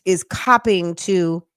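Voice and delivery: talking through hiccups; hiccuping mid-sentence. Real, not acted. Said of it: "I got the hiccups, y'all".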